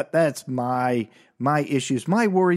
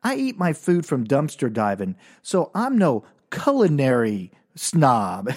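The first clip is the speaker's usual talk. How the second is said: hypothetical fool; 2 semitones higher than usual. Retold or imitated. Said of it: "It's like somebody going".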